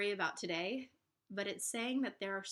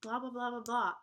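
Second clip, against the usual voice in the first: whiny complaint; 3 semitones higher, 4 dB louder than usual. Retold or imitated. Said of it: "because I'm like".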